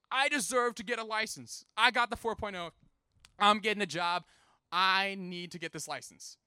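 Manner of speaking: put-on loud, emphatic teenage demand; outraged outburst. Son arguing he deserves a license, outraged. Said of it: "burst out in outrage".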